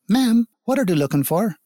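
put-on a small girl asking her mother; curious child. A narrator's reading.

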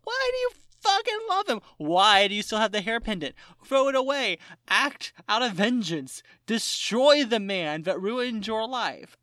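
frustrated yell. Retold or imitated. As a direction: demand she act, yelling at the screen. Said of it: "And I'm like".

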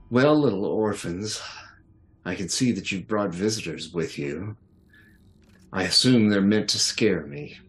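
lightly voiced booming villain; a measured taunt with a touch of boom. Villain owl inviting the intruders in, mildly booming taunt. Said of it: "a voice booms out".

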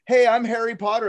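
high, eager mock introduction; Daniel Radcliffe. Actor introducing himself to a mugger, high mock eagerness. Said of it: "He probably went".

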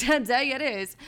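"Today it is" said through a laugh; amused echo of "Today it is"; laughing repeat. Real, not acted. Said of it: "repeated with laugh".

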